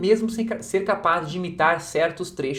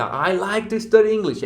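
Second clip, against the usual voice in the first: slow, careful copy of the English line; imitating the narrator; 4 semitones higher, 3 dB louder, slower than usual. Shown as a demonstration. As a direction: echo the narrator's rhythm and intonation slowly. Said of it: "você imita a entonação, o ritmo, a velocidade".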